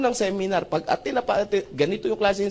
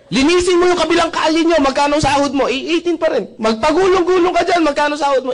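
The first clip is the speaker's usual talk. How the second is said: boss voice; 9 semitones higher, 6 dB louder than usual. Retold or imitated. Boss voiced in retold talk.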